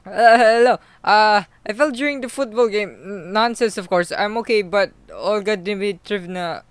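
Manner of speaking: very high, loud put-on voice; odd character voice. Injured footballer excusing himself to the nurse, odd high loud voice. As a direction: pipe up in a silly high-pitched character voice. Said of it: "I don't know why I'm s-, talking like that".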